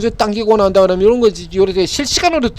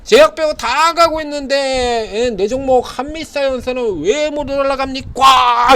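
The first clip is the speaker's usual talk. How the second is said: slow, higher whiny complaint of a small investor; frustrated investor; 5 semitones higher, slower than usual. Retold or imitated. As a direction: play the retail investor moaning that his stock won't rise. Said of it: "이런 소리는". (답답한 개미 투자자 흉내)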